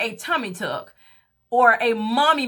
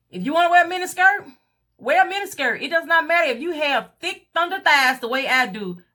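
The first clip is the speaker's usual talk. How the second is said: emphatic encouragement; 5 semitones higher than usual. Real, not acted. Urging women to show off.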